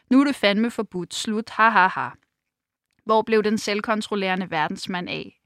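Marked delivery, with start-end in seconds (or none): 0.1-1.5 loud mock bark of a ban; mocking shout. Petra mocking Frank's shouted ban, a loud mock shout. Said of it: "og råber". 1.5-2.1 loud hammed-up villain laugh; mock laugh. Petra mocking Frank, a loud fake gloating laugh. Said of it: "og råber".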